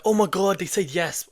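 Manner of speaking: playful mock thrill at a sudden yes; mock excited disbelief. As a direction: act the rookie who can't believe the client said yes. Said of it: "You're like".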